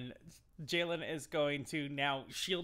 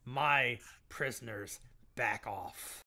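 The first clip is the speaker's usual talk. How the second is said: warning; 3 semitones lower, much slower than usual. Acted. Jalen warns the guards off.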